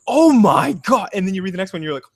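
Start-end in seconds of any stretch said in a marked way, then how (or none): 0.1-1.1 mock shock.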